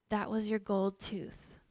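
slow, deliberate retold pronouncement; measured, weighty delivery; solemn revelation. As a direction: voice God's words slowly and plainly. God speaking to her, retold.

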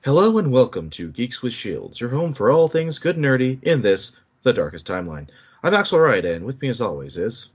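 lightly put-on announcer voice, swinging pitch; playfully trying out a presenter voice; Brokoff voice. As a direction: lean into a hint of a stylised host voice. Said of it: "leaning into the Brokoff".

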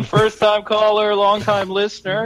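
a hint of an eager radio caller.

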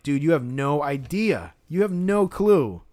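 slow, emphatic disbelief, climbing on the last phrase; mock-incredulous, stretching the key words; imagined exasperated retort. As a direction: spell it out slowly to someone clueless.

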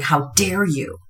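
softly voiced little inner critic; quiet inner critic. Inner critic scolding an entrepreneur, quiet little voice. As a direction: drop the volume for a small nagging inner voice. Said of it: "the quiet little voice of your inner critic".

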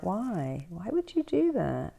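high, baffled why would you; incredulous. Retold or imitated. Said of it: "I'm like".

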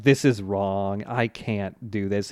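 low, slow self-reproach; reluctant conscience. Retold or imitated. Josuke tempted to take the money, slow reluctant refusal.

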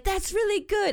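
put-on Heidi Klum German accent, lightly done. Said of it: "I can't do a German accent".

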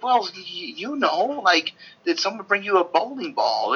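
high, fumbling explanation; flustered interviewer pushing the question; high, flustered explaining. Retold or imitated. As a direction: squeak it out in a rush, flustered. Retelling herself explaining the question.

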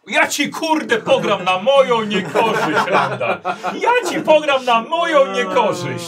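mock-outraged yell through laughter; laughing shout. Real, not acted. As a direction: shout it while cracking up. Outraged GM yelling at player.

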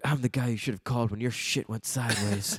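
lightly voiced tough guy; low, understated Seagal delivery; mock Seagal line. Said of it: "And Steven's like".

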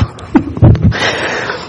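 real laugh, mostly breath; cracking up. Real, not acted. Preacher amused by his own story, cracking up. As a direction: crack up while trying to hold it in. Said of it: "without just cracking up".

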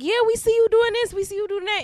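high, lightly mocking fan voice; imitating fans. Host mimics people spotting them out, lightly mocking. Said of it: "people are like".

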